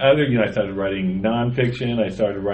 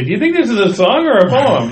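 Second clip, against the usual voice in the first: retold question; 11 semitones higher, 5 dB louder than usual. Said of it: "and I'd say".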